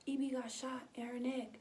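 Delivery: hushed whisper of shocking news. Retold or imitated. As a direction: whisper it, scared to say it aloud. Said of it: "My cousin was like".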